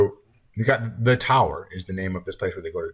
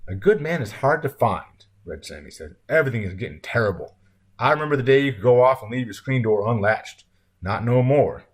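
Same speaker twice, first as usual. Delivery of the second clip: lightly voiced country man, raised and emphatic; folksy diner owner, lamenting; 3 semitones higher, 3 dB louder than usual. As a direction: complain about the times, a little folksy. Voices Red Sammy lamenting.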